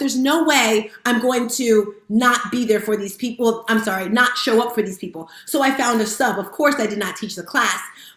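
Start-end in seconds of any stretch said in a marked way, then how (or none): none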